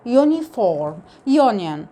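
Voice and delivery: "يونيفورم، يونيون" starting on long "yoo". Shown as a demonstration. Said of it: "بالصوت الطويل بتاعها يو". (نطق "يونيفورم، يونيون" بصوت "يو" الطويل)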